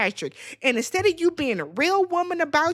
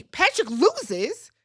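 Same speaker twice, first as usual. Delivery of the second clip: stunned slow; 2 semitones higher, 3 dB louder, much slower than usual. Real, not acted. Repeats the result.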